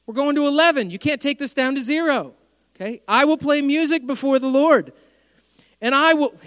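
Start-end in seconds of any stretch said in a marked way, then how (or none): 3.1-6.4 defiant declaration. Retold or imitated. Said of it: "you're not gonna shut me up".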